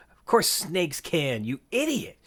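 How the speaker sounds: drawn-out retort rising high on idiot; slow, scornful kid's comeback; mock exasperation. Quoting kids screaming at each other.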